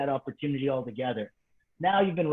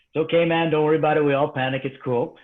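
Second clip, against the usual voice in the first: loud reassuring coach; 6 dB louder than usual. Retold or imitated. Instructor voiced, reassuring.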